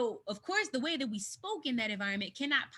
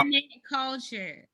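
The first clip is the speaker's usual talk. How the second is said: sarcastic echo; 4 semitones higher, 6 dB louder than usual. Real, not acted. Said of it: "What's the problem? It's internet culture".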